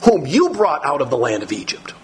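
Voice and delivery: high, urgent no-no-no protest. Acted. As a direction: correct God, insistent. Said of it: "Moses turns it around".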